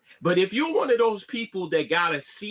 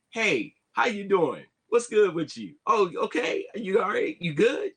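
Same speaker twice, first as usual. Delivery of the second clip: overly eager greeting; 4 semitones higher than usual. Shown as a demonstration. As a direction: greet them like an old friend. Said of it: "I don't say it like that all the time".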